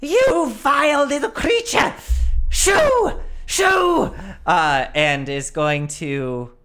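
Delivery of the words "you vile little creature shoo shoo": high, loud scolding shriek; indignant shouting skull. Acted. Flame Skull shouts at the madcap across the yard, high shrill scolding. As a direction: shoo the pest away in outrage. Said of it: "starts shouting at this madcap".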